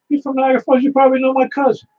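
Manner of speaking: imitating a New York Italian accent. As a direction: play the Brooklyn-born Italian pizza owner. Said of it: "a New York type Italian accent".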